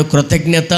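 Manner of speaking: "కృతజ్ఞత" said alone as a model; word modelled for repeating. Shown as a demonstration. Preacher asks listeners to join on "కృతజ్ఞత", modelled for repeating. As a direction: give "కృతజ్ఞత" for others to echo. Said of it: "చెప్పండి నాతో పాటు".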